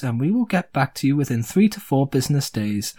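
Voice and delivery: a hint of a polite customer-service tree; lightly voiced automated customer-service tree; talking tree. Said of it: "And the tree says".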